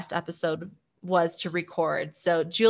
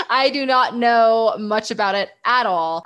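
laughing; 3 semitones higher, 4 dB louder than usual. Real, not acted. Jokes she knows nothing of it.

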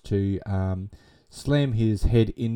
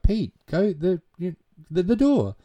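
calling out; 9 semitones higher than usual. Retold or imitated. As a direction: call him from the other room. Mother calls out to son.

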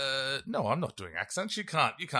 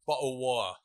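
attempted English accent. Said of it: "can you give me your best English accent".

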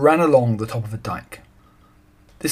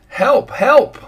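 loud, high cries of help, rising at the end; shouting for help; 13 semitones higher, 8 dB louder than usual. A narrator's reading. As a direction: call out desperately for anyone to hear. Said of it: "he shouted".

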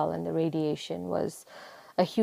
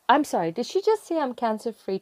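stunned disbelief; 6 semitones higher than usual. Retold or imitated. Disbelief at cancer-free news.

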